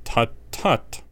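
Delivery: silky, whispered tut. A narrator's reading. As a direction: purr it smugly. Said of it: "Severus said silkily".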